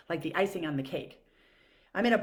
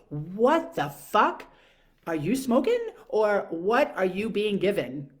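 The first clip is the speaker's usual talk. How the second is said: slow and louder, dragging out "What the fuck"; venting at a careless driver, louder and slow; outraged disbelief; 6 dB louder, slower than usual. Real, not acted. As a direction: let the frustration spill out slowly. Outraged at the woman driving.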